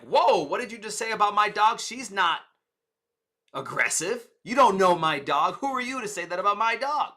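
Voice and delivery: mock-indignant owner defending his dog; defensive owner. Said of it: "That makes me feel ... defensive".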